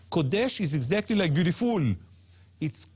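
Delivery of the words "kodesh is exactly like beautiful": "Kodesh" and "beautiful" both stressed on their last syllables; "Kodesh" as ko-DESH, "beautiful" as beau-ti-FUL; mistaken end stress. Shown as a demonstration. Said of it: "It's not Kodesh".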